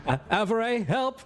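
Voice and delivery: high, panicky call for help; freaked-out shout. Acted. Chris calls to Avery for help, panicked high cry. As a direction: freak out, pitch leaping up. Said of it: "freak out and shout".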